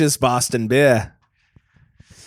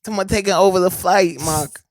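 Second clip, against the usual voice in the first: mock action hero; 7 semitones higher than usual. He plays the star rallying his friend to the cockpit. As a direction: charge off like a B-movie hero. Playing Wahlberg rushing cockpit.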